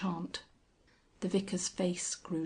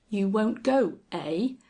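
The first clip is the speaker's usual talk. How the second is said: louder menacing challenge; threatening; 2 semitones higher, 5 dB louder than usual. Acted. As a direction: square up to him. Squire threatening.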